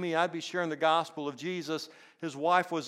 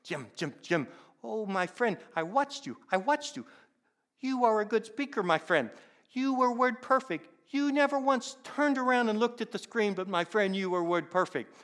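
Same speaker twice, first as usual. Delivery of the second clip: imitated Indian accent, pitched higher; 7 semitones higher than usual. Indian friend praising the preacher after the service, imitated Indian accent. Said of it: "M J had a distinct accent".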